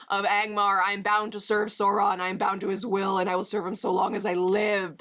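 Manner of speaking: hammed-up vow of a dark servant; lightly voiced Witch King oath; mock oath. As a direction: swear it like a bound wraith. Reads viewer's oath in character.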